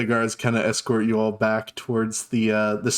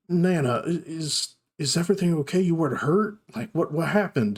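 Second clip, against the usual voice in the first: halting, slightly higher concerned voice; Geralt; 4 semitones higher than usual. Acted. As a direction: check on Nana with a worried stammer. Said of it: "his voice again".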